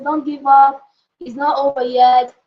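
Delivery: encouraging a friend. Retold or imitated. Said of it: "you would encourage a friend and say".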